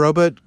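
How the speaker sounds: "robot" with a weakened second vowel, like "ROE-but"; old-time pronunciation of robot. Shown as a demonstration. Anti-robot guy showing off old sci-fi pronunciation, "robot" as "ROE-but". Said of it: "they always pronounced it robot".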